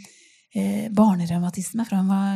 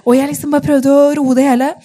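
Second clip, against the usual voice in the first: ordinary talk, nothing marked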